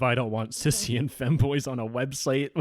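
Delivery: mocking nerdy kid voice; Discord nerd voice. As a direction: parody the hacker as a smug nerd. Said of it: "let me turn on my Discord nerd voice".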